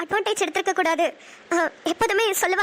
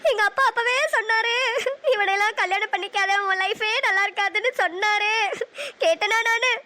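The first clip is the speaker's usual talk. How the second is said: crying. Acted. Wife breaks down after harsh words.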